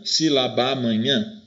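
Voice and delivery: slow sílaba amanhã sharing a single A; two As merged. Shown as a demonstration. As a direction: draw out sílabá-manhã as a linked phrase. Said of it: "Eu não juntei os dois As".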